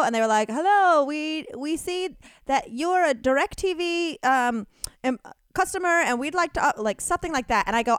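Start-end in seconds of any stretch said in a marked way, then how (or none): 0.5-6.7 lightly voiced higher telemarketer; a hint of a halting call-center greeting; caller's phone pitch. Call-center caller opening a sales call, lightly imitated.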